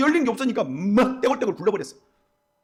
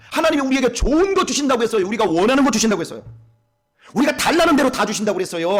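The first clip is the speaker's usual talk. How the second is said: raised, ringing sermon voice, pressing each line home; fervent preaching; 3 semitones higher than usual. Acted. Pastor preaching to the dawn congregation, fervent and raised. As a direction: preach it out to the pews with conviction.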